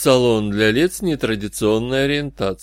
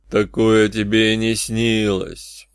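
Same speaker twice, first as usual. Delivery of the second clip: gurgling fish man croak; slower than usual. Acted. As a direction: let it bubble up slowly from below. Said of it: "ответил из глубины колодца звучный булькающий голос".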